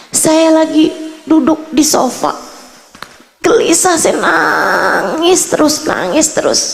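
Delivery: imitating a woman's despair; retold anguish. Retelling woman's endless restless crying.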